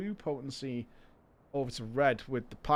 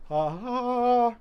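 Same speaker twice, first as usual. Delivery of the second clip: lizard voice; 9 semitones higher, 6 dB louder than usual. Acted. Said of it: "Lizard voice".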